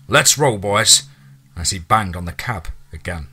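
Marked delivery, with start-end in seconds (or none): 0.1-1.0 rallying call. Acted. Team leader urging his men to move out, rallying call. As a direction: rouse the boys to go.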